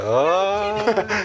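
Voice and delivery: high breathy oh; imitated gasp. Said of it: "you hear that".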